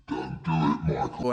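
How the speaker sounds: very low warning voice; low, hushed-toned conscience; little inner voice. Acted. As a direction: caution him as a voice in his head. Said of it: "a little voice said".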